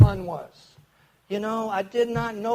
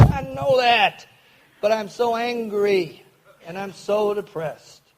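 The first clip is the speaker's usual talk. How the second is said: louder, slow, drawn-out cry of frustration, as retold; retold exasperated outburst; 2 semitones higher, 4 dB louder, slower than usual. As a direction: pour out the anger and despair, each word stretched.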